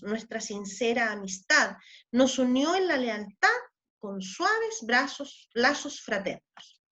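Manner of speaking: measured verse recitation, slowing at the close; poem reading. Acted. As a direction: recite the poem, easing off at the end. Reads a décima aloud. (recitando el poema con ritmo de verso)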